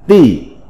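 "Tỷ" said as a Mandarin syllable; Mandarin reading. Shown as a demonstration. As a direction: give the Chinese sound for Tỷ. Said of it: "Phiên âm tiếng Trung đọc là".

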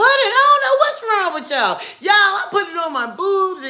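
laughing shout. Real, not acted. Joking rant, laughing shout.

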